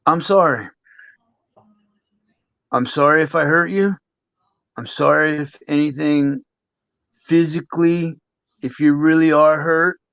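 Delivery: measured, heartfelt apology with long pauses; sincere apology. Real, not acted. Wrestler apologizing to old rival Jack who may be listening, sincere. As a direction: apologize earnestly, leaving space after each phrase.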